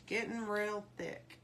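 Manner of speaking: slow country drawl; slipping into a country twang; country accent. Real, not acted. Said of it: "pulled out that country accent".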